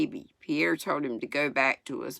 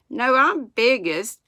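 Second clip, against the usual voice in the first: insistent; 7 semitones higher, 7 dB louder than usual. Acted. Boy insisting on first ride.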